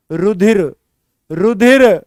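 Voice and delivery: रुधिर said clearly as ru-dhir, correcting रचिर; correct pronunciation. Shown as a demonstration. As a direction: spell out रुधिर, not रचिर. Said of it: "ये रचिर नहीं है". (रुधिर का सही उच्चारण)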